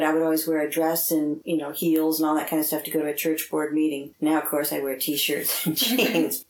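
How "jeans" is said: ordinary talk, nothing marked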